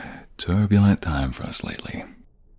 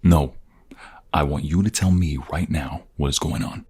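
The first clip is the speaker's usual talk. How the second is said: angry demand; 4 dB louder than usual. Acted. Refuses detective, demanding answers.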